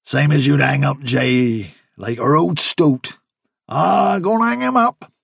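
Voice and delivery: a sly country labourer explaining; the man to Fiver, sly rustic workman. Acted. Man's speech.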